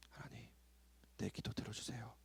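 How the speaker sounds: whispered, barely a breath; quiet whispered prayer. Shown as a demonstration. Preacher mocks a timid prayer, softly whispered. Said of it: "그냥 조용히".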